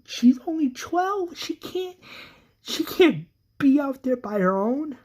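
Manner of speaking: a mother losing it, pleading high and frantic; freaking out. Acted. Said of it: "Carol freaks out and says".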